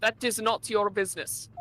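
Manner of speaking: put-on thick Russian accent, dropped articles. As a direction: play a gruff Russian steward. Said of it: "Russian accent".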